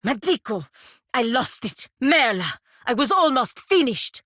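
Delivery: yelling over lost work; frustrated outcry. Acted. Cries out after losing work.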